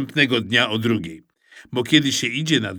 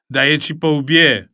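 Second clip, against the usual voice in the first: threat; 3 semitones higher, 6 dB louder than usual. Acted. Maksencjusz threatens Eusebiusz.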